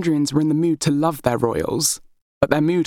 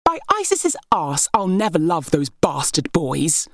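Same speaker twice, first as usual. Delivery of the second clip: scornful princess; 2 semitones higher than usual. Acted. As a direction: sneer it out like a spoiled heir. Berenice, angry princess, scornful.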